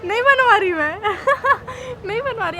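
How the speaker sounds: teasing echo through a laugh; mock his words while laughing; laughing mimicry. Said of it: "हंसी आ गई आपको". (हंसते हुए चिढ़ाना)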